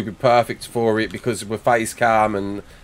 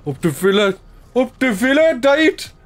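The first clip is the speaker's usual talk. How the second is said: high put-on supporter's chant, climbing; football fan cheer; 10 semitones higher, 4 dB louder than usual. Streamer playing a Villa supporter to Dave, climbing fan cheer. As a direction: cheer like a fan, pitch rising each time.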